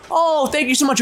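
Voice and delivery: wrong take. Shown as a demonstration. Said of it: "My second question wouldn't be".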